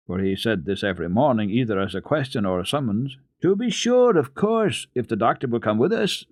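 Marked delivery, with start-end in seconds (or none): 3.4-6.3 put-on high, bright-eyed child's reply, rising and eager; a little girl leaping at the chance, pitched high. A narrator's reading. Heidi answers Peter, eager and high-pitched. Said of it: "replied Heidi".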